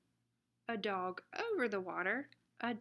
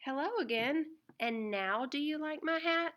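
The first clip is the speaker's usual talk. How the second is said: higher, lively little lady dog asking about her hat; perky, sing-song girl dog, a touch faster at the end; 4 semitones higher than usual. Acted. Girl dog asks once more.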